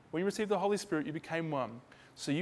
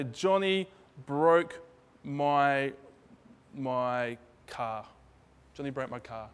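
put-on upset little kid; much slower than usual. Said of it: "the little kid is furious and angry and distressed".

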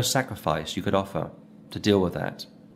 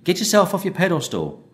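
mock blunt advice; 3 semitones higher than usual. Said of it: "and said".

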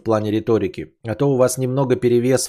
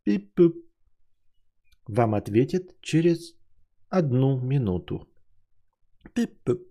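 call center hold message; 5 semitones higher than usual. Pretend. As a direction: play an automated hold line. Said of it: "Я же вам это, эм, экранизировал".

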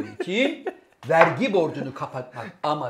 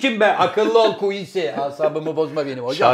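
mock indignation; 6 dB louder than usual. Mock-scolding a famous music producer.

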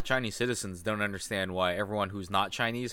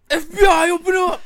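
loud, high mock FBI raid shout; grave federal agent; 12 dB louder than usual. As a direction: bang on the door as the FBI.

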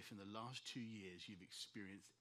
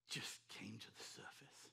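hushed recollection; 3 dB quieter than usual. Retold or imitated. Recalling breaking down alone.

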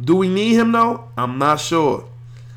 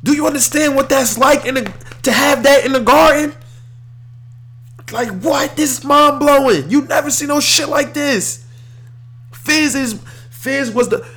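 excited; 8 semitones higher than usual. Real, not acted. Hyped about team news.

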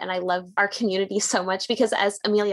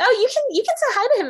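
friendly offer; 5 dB louder, much faster than usual. Retold or imitated. Puppy owner offering, retold.

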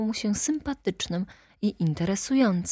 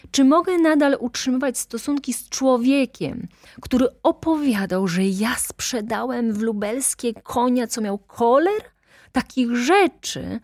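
rising higher and louder with indignation; building anger; 6 semitones higher, 3 dB louder than usual. A narrator's reading. Director complaining to Wokulski, anger building, voice rising. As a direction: get angrier with every phrase. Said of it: "wołał coraz mocniej, podnosząc głos".

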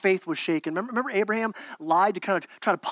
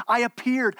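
higher, louder, insistent declaration; urgent God voice; 4 semitones higher, 3 dB louder than usual. Acted. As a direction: proclaim it with rising urgency.

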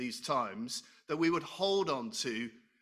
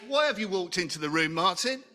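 louder, quick scolding of himself; mock self-scolding; 3 semitones higher, 5 dB louder than usual. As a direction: tell yourself off, half laughing. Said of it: "I say".

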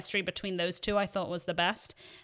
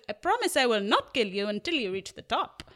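rough imitation of a Spanish accent; Inigo Montoya. Swordsman promising the man on the cliff, attempted Spanish accent. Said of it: "he says in his Spanish accent".

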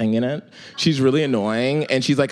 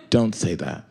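a stifled laugh, quieter; laughing through it; 7 semitones lower, 3 dB quieter than usual. Retold or imitated. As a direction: scold while trying not to laugh. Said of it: "I heard that she was smiling".

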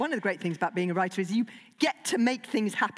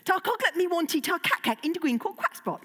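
dragon language; 8 semitones higher than usual. Acted. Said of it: "do you toilet training".

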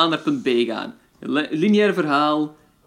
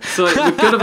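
laughing; 3 semitones higher, 5 dB louder than usual. Real, not acted. Joking about depressing podcast.

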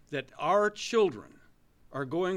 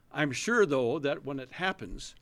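sarcastic; 3 dB louder than usual. Acted. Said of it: "this is sarcasm".

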